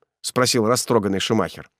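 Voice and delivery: ordinary delivery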